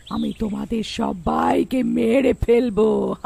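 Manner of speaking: slow, drawn-out villain threat; menacing witch. Acted. Witch threatening her captives, slow menacing delivery. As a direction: stretch the threat out with wicked relish.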